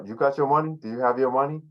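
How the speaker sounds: "money" rising high at the end, clearly asking; question tune. Shown as a demonstration. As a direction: lift "You got your money?" up at the end like a real question. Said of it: "with a question".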